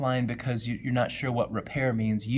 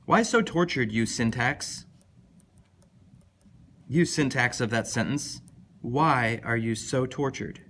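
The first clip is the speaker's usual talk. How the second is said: mock lament. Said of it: "addresses the syntax in a hammed-up lament".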